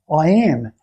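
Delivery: a touch of exasperated insistence; mock frustration. Client running out of answers, mildly frustrated. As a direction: imitate a mildly fed-up answer. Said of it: "in that frustration".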